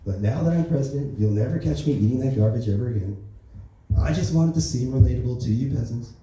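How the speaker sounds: lightly voiced Trump, smug and boastful; a hint of Trump bragging to the peasants; Donald Trump impression. President Trump brags to the public, lightly voiced Trump. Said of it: "that's the end of my Donald Trump jokes".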